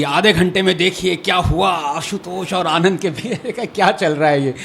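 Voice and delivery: lightly mocked promo voice, racing at first; TV promo imitation. Panelist imitating the debate promos, lightly hammed-up teaser. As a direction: rattle off a teaser with a laugh in it. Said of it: "having promos of this".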